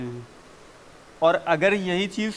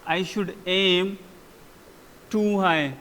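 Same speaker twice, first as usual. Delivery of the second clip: slow model phrase; much slower than usual. Shown as a demonstration. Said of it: "उन्होंने बोला है".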